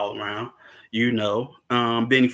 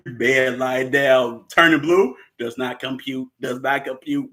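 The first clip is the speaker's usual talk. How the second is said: robot voice; 4 dB louder than usual. Pretend. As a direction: spell it out like a glitching robot. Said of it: "mechanical man".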